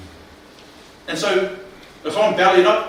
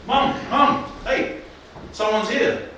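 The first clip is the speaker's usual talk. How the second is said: calling out; 8 semitones higher, much slower than usual. Retold or imitated. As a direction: call to Mum that someone's at the door. Voicing a person calling for parent.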